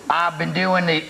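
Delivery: a quick hint of a Texas drawl before giving up; Texas accent. Host starts reading a Texan fan's letter in a half-begun Texas accent. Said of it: "well, I won't do the accent".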